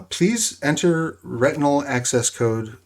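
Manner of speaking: slow, even machine announcement; computerized voice. Acted. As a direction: read it like an elevator computer. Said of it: "you hear a computerized voice".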